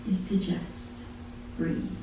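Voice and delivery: fading to a soft breath; trailing into a hush. Acted. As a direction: let it die away softly. Lyric refrain fading to hush.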